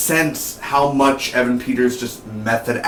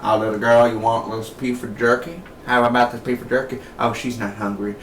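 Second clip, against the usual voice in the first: cannibal mother voice. Retold or imitated. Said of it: "she's like".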